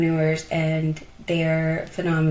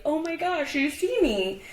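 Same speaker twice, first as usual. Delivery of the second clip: retold tearful gasp of relief, high-pitched; moved to tears; 9 semitones higher than usual. Entrepreneur recalls a friend noticing her discomfort, moved to tears. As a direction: voice lifts high, lightly imitating being overcome. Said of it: "I just started crying".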